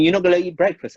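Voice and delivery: a lightly voiced friend asking; imitating friend. Friend asking why he skips breakfast, lightly voiced. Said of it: "And he said to me".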